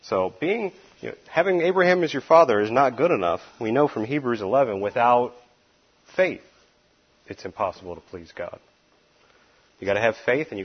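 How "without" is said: ordinary talk, nothing marked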